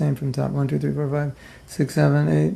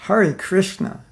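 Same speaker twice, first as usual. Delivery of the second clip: "Hare Krishna" lifted higher, with a falling sigh; exasperated Hare Krishna; 4 semitones higher, slower than usual. Shown as a demonstration. Teacher showing how devotees say it when fed up, exasperated. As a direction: say "Hare Krishna" as a weary you're-nuts sigh. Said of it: "We say".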